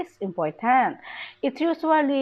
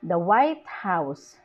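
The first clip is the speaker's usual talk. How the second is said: slow, with "White" punched and "House" falling; stress on WHITE; 4 semitones lower, slower than usual. Shown as a demonstration. Teacher gives an adjective-noun example, stress on "White". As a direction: give "White" the main stress. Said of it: "The adjective takes the main stress".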